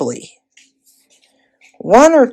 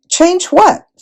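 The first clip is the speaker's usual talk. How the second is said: puzzled question; 11 semitones higher than usual. A narrator's reading. Lucy asks, puzzled.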